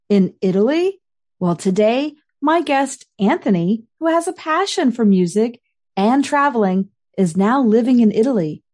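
scripted, upbeat host welcome; podcast intro read. Acted. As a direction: introduce the episode to your listeners. Host reads scripted episode opener.

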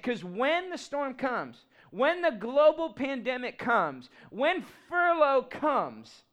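drawn-out, rising slow phrases; slow preaching build, rising on each storm; slow, building preacher cadence. Acted. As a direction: stretch each clause as it builds.

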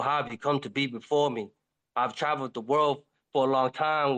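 low, pleading wolf. Acted.

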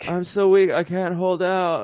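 high, far-off feeble plea; weak old Palpatine. Retold or imitated. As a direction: whine it out like a beaten old sith. Continuing Palpatine quote.

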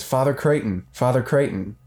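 eager visitor calling at the door. Pretend. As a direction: call his name through the door. Caller knocking at office door.

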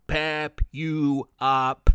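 slow, low, loud monster yell. Acted. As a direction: bellow it like a soda monster. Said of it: "it yelled".

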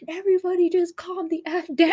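high laughing imitation of Brie telling everyone to calm down; mock Brie. Friend retelling a movie line, high mock Brie voice. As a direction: squeal it out through a laugh. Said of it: "when Brie was like".

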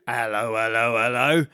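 a plodding Victorian bobby saying hello; old bobby greeting. Shown as a demonstration. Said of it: "Oh, could we do".

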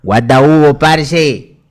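playful put-on Colombian accent; mock Colombian Superhero. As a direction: imitate a hero with Colombian slang. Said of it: "Superman le va a hablar así".

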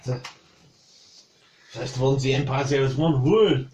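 put-on measured French accent, lifting on the final question. Cook explains the Empire's one rule, French accent. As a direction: instruct him in a French accent. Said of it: "annoyed that you can do that".

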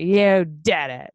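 put-on slow, drawn-out drunk accusation; mock drunken blame. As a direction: imitate a tearful drunk blaming a friend. Acts her crying, blaming drunk self.

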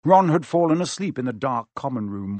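ordinary delivery

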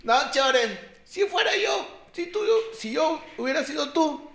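high, slow, loud swagger with a laugh; mock tough talk. The friend boasting to Chore about dragging the kid, mock-tough. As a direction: play the big shot, half laughing.

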